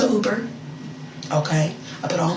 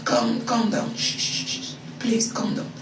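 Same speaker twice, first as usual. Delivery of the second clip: softer, shushing; calm him down like a child; hushing the upset boyfriend, soft and patronizing; mock soothing hush; 4 semitones higher, 6 dB quieter than usual. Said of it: "I'm like".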